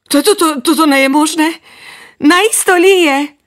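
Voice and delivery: high, stammering astonishment; amazed child. Acted. Notes amazed at the falling rain. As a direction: stammer in wonder.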